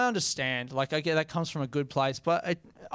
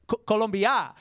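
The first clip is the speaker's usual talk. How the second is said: confused Greek dude; 5 semitones higher than usual. Retold or imitated. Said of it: "They're like".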